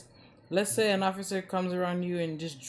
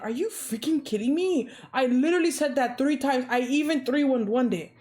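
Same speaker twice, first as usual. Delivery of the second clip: frustrated rant; 4 semitones higher than usual. Retold or imitated. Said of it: "And they're like".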